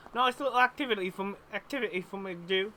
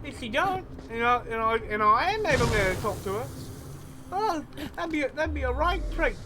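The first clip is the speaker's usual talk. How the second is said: put-on Cockney-Australian accent. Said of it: "I'm doing a mixture of Cockney and Australian".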